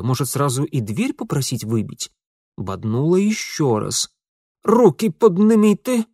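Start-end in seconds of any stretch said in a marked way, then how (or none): 4.6-6.1 strained shout, much higher and louder; puffing shout. A narrator's reading. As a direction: bark it out while straining and out of breath. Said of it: "пропыхтел сзади Ингвар".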